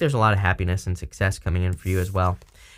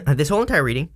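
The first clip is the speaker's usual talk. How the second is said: throat catching mid-sentence; choking on spit; 5 semitones higher, faster than usual. Real, not acted. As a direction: talk through a throat tickle. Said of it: "I'm choking on my own spit".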